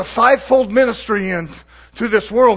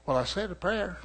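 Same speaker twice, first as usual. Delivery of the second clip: mocking; 10 dB quieter than usual. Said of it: "Yeah, I'm mocking it".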